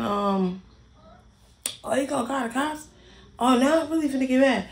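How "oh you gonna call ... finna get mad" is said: mocking the main girl. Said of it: "she was saying".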